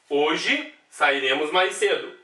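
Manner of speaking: spaced-out, deliberate reading of the example; slow example reading. Shown as a demonstration. Teacher reads the next example to the class, slow and deliberate. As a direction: give the class time on every word. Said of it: "Adjunta adverbial".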